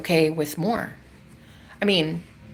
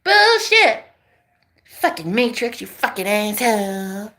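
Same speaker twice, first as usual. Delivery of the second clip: cursing the empty stream in rage; furious at the Matrix; slower than usual. Retold or imitated. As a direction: scream it at the screen. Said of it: "be like".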